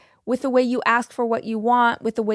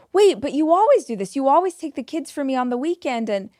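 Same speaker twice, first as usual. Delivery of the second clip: higher, louder protest, rushed; a friend pleading for a favour; pushy friend; 4 semitones higher, 3 dB louder, faster than usual. Acted. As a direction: whine and push back to wear her down. Acted pushy friend arguing.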